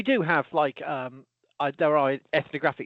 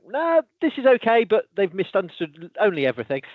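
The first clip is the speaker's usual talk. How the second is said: higher, louder, cheerful dry correction; mock polite correction; 4 semitones higher, 4 dB louder than usual. Professor answering misinformed videos, bright mock politeness. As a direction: sweetly point out they got everything wrong. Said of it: "I do a response and go".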